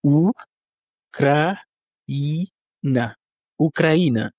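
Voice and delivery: Ukraine in Russian: u-kra-I-na, stress on the I; Russian pronunciation. Shown as a demonstration. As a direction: Ukraine said the Russian way in four syllables. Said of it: "donc quatre syllabes".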